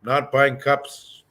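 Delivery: slow, blunt, no frills; just straight up, say it flat out; blunt and direct. Retold or imitated. How Anishinaabe speakers say it, blunt and slow. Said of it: "sometimes it's quite direct".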